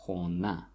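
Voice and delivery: Khona with the stress on the final a; stress on last syllable. Shown as a demonstration. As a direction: lean on the closing a of Khona. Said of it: "this is where the stress falls".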